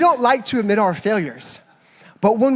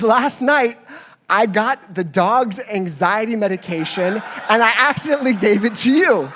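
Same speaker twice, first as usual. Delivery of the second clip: mock flustered confession; 3 semitones higher, 4 dB louder than usual. Wife confessing in retold story.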